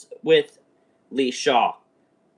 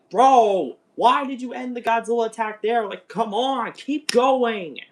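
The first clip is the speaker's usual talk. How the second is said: frustrated outburst; 7 semitones higher than usual. Retold or imitated. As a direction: bark out a fan's protest. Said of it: "I was very frustrated at first".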